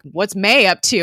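retold alarm, pushed up and loud; mock freak-out. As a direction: imitate someone freaking out. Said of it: "Fitz is fucking freaking out".

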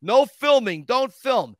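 mock shout to stop filming; imitating a producer yelling stop; retold scream. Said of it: "comes running down and screams".

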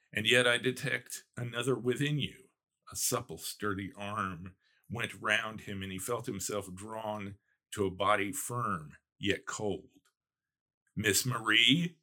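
reading a novel passage aloud, lightly voiced; story reading. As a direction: read the gothic scene to listeners.

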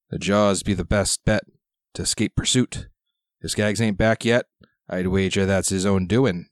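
lightly voiced gruff old sailor; gruff old fisherman. GM plays old pirate sailor.

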